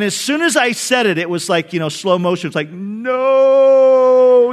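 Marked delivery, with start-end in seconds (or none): 2.7-4.5 inner panic. Retold or imitated. Panicked inner cry after remark.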